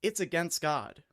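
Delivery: kids insisting loudly, half-mocked; a touch of a loud schoolyard claim; mild mock insistence. Schoolkids insisting the show is against God, mildly loud. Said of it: "they were like".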